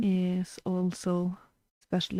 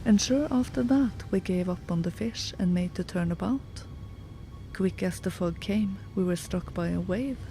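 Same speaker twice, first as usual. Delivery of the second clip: steady storyteller reading an Irish tale; story narration. A narrator's reading. Host reads a tale of Ireland to listeners, in steady storytelling voice. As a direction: read it like a fireside story.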